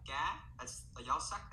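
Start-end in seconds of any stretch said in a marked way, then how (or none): 0.1-0.4 "ga" rising in the sắc tone; acute tone. Shown as a demonstration. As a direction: lift "ga" to a higher tone. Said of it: "that's the acute mark".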